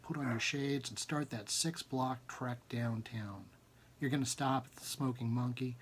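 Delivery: measured second-person story reading; story narration. Acted. Author reading his novel aloud, measured narration. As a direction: read the story to listeners, steady.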